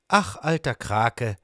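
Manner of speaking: mild sorrow; a touch of regret, lightly acted; sad lobster father. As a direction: sigh it out sadly, understated. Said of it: "sagt Papa Hummer traurig".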